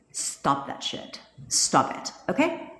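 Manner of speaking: stern, voiceless whisper; a slow, hushed order to stop; hushed scolding. Acted. Coach telling discouraged viewers to quit it, hushed scolding.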